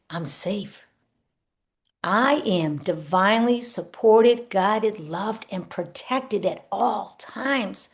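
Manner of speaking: gentle self-affirmation. Shown as a demonstration. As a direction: speak it as calm truth, slowly. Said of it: "program in, recode, reprogram".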